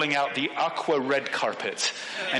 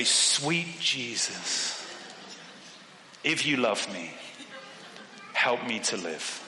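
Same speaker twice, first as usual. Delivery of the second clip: retold prayer; 4 semitones lower, 5 dB quieter, slower than usual. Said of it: "So I say a prayer".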